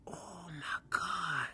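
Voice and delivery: slow, crying cry of despair; breaking down. Retold or imitated. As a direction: sob it out, overwhelmed. On her knees, people falling.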